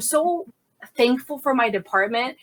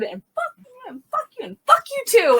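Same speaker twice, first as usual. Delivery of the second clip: acted-out cursing outburst. Officer snapping at colleagues in briefing, acted-out angry outburst.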